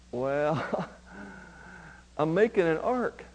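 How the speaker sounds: low, soft, hesitant reply; lightly voiced Noah. Noah answering a curious passer-by, lightly sheepish.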